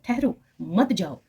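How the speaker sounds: ठहरो stressed, then मत जाओ grouped together; pause after ठहरो. Shown as a demonstration. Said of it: "लेकिन यहाँ पर है".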